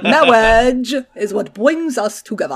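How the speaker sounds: laughing lisp, Princess Bride style; lisping quote. Retold or imitated. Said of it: "speech impediment".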